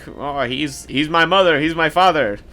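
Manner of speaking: hammed-up loud, high mock hero proclaiming; over-the-top parody of a grand declaration; mocking the preachy movie. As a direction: shout it like an overblown movie speech, laughing through it. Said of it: "man, like".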